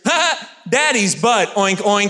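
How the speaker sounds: put-on high, loud, slow giggly kid taunt; mocking toddler. Toddler taunts dad in the shower, high giggly taunt. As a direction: tease like a gleeful toddler.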